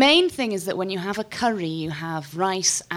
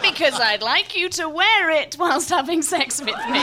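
laughing shout; 8 semitones higher than usual. Real, not acted. Joke answer shouted through laughter.

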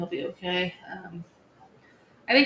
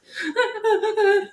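high, loud burst of pretend bawling; mock sobbing; 13 semitones higher, 6 dB louder than usual. Mom imitating herself breaking down in Corey's hug, mock sobs.

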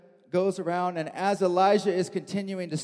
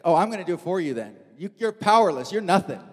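contemptuous; 3 dB louder than usual. Retold or imitated. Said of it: "She's like".

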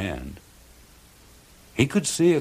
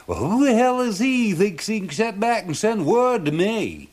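much higher, put-on Down East fisherman voice; indignant old fisherman; 12 semitones higher, 4 dB louder than usual. A narrator's reading. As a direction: protest your innocence like a crusty old Mainer. Charlie defiant to serpent.

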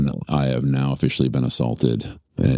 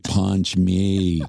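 retold request; 3 semitones higher than usual. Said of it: "she's like".

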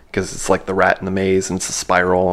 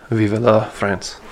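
mock French accent; much slower than usual. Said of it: "I guess that's how you say that".

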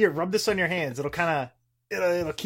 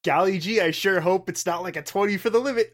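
put-on wholesome 1950s kid; 4 semitones higher, 4 dB louder than usual. Ironic wholesome exclamation.

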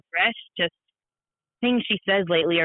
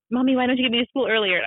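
put-on quick, higher-pitched kid's question; child's complaint; 4 semitones higher, faster than usual. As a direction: lightly imitate a child asking Mommy why. Mother voices child's complaint.

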